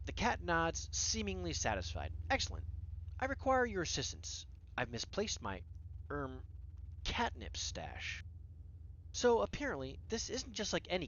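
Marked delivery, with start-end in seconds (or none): 2.3-4.5 higher, lightly British regal cat; British accent. Acted. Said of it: "in a British accent". 4.8-8.2 hesitant, lightly British cat; lower, slowing British cat voice; British accent. Acted. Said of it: "in a British accent".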